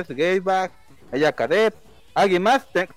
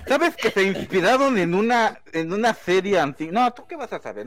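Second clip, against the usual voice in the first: smug superfan; 3 semitones higher than usual. Acted. Superfan persona.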